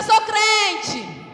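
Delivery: loud, high preacher's shout; rallying shout. Real, not acted. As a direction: rouse the congregation to repeat it. Preacher has congregation repeat.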